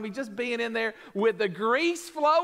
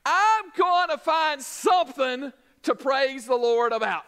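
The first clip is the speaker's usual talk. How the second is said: resolved cheer; 3 semitones higher, 3 dB louder than usual. Retold or imitated. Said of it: "If you'll just say".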